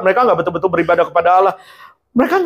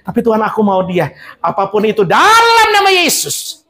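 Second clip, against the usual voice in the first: whiny plea. Acted. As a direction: beg God in Jesus' name, hammed-up. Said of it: "believer pleading to God". (rengekan minta dalam nama Yesus)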